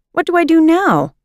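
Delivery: at a loss. A narrator's reading. Fumiko frustrated, at a loss.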